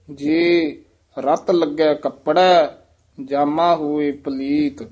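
slow teaching demo, ਜੇ held apart and ਰਤ tight; break after ਜੇ, firm ਰਤ. Shown as a demonstration. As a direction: pause on ਜੇ and press ਰਤ firmly. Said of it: "ਜੇ ਪਦ ਤੇ ਯਮਕ ਲਾ ਦੇਣੀ ਹੈ".

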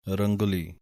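ਰੰਗੁਲੀ with a short u after g; u sound on g. Shown as a demonstration. Teacher showing the u sound in ਰੰਗੁਲੀ. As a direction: say rang-u-li, u clear. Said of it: "ਗੱਗੇ ਦੀ ਔਂਕੜ ਦੀ ਆਵਾਜ਼ ਦੇਣੀ ਹੈ".

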